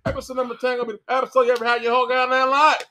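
fast hammed-up Southern hype; fast mock Southern accent hype. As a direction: rush it like a Southern TV promo. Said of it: "screaming in a Southern accent".

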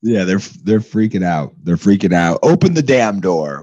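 loud, impatient yell over the noise; shouting agent. Acted. Agent yelling at the fatty over barking dogs, loud demand. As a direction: bellow at the man to open up.

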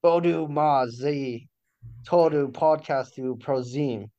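Bodu Mazi read slowly, sounded out; slow foreign phrase. Shown as a demonstration. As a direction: sound out Todu Podcastu Prozim slowly. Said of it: "Say that again".

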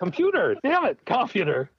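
"computer" hit on COM, high and frustrated; laughing at himself, getting "computer" right; wrong stress, laughing. Shown as a demonstration. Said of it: "I'm not even doing it now".

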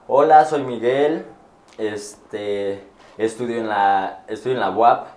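slow, halting self-introduction; stuck introduction. Retold or imitated. Student introducing himself to the class, stuck and halting. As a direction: drag out the words as you lose your thread. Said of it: "me quedé trabado".

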